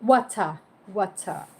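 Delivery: Water with the final R dropped; Water as "waw-tah", no R at the end; slangy British pronunciation. Retold or imitated. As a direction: say Water British-style, ending in an open "ah". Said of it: "slang or like".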